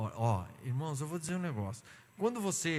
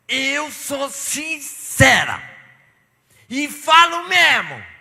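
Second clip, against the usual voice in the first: much higher, louder, very slow defiant bellow; mock sister; 11 semitones higher, 13 dB louder, much slower than usual. The blunt church sister shouts her sincerity. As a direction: boast bluntness at full blast. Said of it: "que falava".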